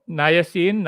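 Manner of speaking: drawn out. Shown as a demonstration. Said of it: "drawn out niacin".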